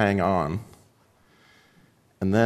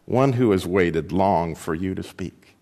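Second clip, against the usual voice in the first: slow, lower, softer great voice; a calm, patient creature answering the frightened boy, slow and low; large deep voice; 4 semitones lower, 3 dB quieter than usual. Acted. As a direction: speak slowly like a vast unseen creature. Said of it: "its voice was loud, but very large and deep".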